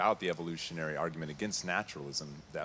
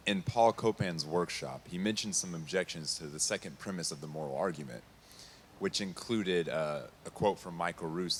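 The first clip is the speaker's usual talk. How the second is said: speaking louder. Real, not acted. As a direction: speak up for the room. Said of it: "Can you speak louder, please?".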